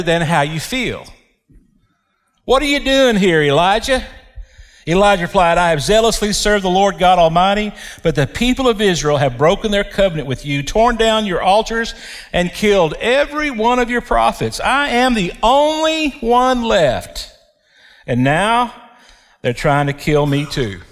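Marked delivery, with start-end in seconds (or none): 2.4-4.1 voice of God. Acted. God's question repeated, raised. 5.6-20.8 self-pitying Elijah. Acted.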